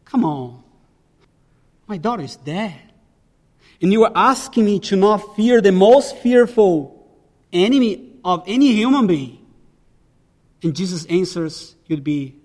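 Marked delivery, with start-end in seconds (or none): 0.1-9.4 imagined protest. Retold or imitated. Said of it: "if I were Jairus, I would say".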